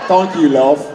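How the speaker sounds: badly faked British accent; mock British accent. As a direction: toss out a mock British thanks. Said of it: "What was that accent?".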